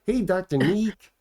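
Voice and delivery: a light faux Latino cartoon doctor. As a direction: draw out the greeting in a faux Latino accent. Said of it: "kind of faux Latino".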